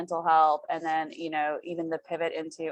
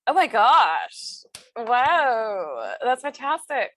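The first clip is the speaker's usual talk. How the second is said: high, loud delighted gasp; genuinely wowed by the pitch; excited; 4 semitones higher, 5 dB louder, much slower than usual. Real, not acted.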